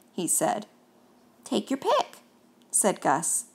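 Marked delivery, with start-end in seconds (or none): 1.4-2.2 ghost voice. Acted. Gus voice.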